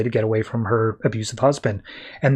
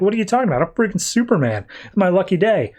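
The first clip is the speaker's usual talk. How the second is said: higher, cocky mock bragging; cocky boast; 6 semitones higher than usual. Donnie boasting to his friend, higher and cocky. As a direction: play him up as invincible, loosely imitated.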